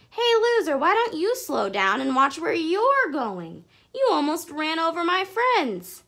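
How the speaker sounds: loud, high angry telling-off; scolding. Acted. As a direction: grab his handlebars and scold him. Jessie confronts bully.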